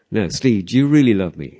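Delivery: Jesus pressing Steve insistently. Retold or imitated. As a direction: press him, voice rising. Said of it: "Jesus pressing".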